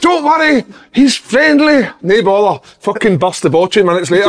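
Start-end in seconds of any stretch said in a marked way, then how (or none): 0.0-2.6 high sing-song mock reassurance, much higher; mock dog owner. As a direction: squeak it out like a clueless dog owner.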